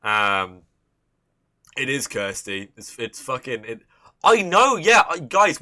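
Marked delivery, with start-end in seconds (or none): 4.2-5.6 excited. Real, not acted. Reacting excitedly to chat.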